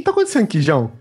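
a son calling his father Jão as a joke; mock surprise. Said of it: "aí eu virei e falei assim".

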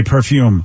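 "perfume" with the weight on the second syllable; per-FUME, second half stressed; accent on FUME. Shown as a demonstration. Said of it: "accent on the fume".

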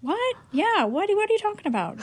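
high, rising, astonished questions; shocked disbelief. Retold or imitated. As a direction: replay how floored you were. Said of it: "And I was like".

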